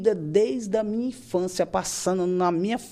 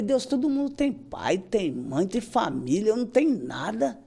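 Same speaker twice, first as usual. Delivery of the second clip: higher, drawn-out complaint to God; mildly anguished, retold plea; retold lament to God; 3 semitones higher, slower than usual. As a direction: plead it slowly, swinging up and down in pitch.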